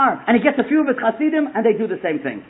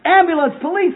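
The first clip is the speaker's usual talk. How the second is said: raised-pitch mock yell; retold yelling; 7 semitones higher than usual. Storyteller voices Herschel calling help for a dying man, mock yell. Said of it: "He's yelling".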